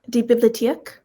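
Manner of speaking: "bibliotheek" run together quickly; quick, casual "bibliotheek"; said fast. Real, not acted. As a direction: say "bibliotheek" fast, middle vowel reduced to uh. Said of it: "I might be saying it fast".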